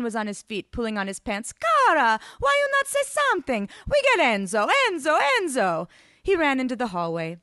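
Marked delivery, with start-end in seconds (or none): 1.5-5.9 high, frantic foreign lover; alarmed. A narrator's reading. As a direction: cry out in accented dismay, calling for help. Ivan alarmed, calls for Enzo.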